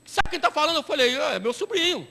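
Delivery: a hint of a wheedling young caller; scam caller. Prisoner calling the pastor collect, lightly wheedling.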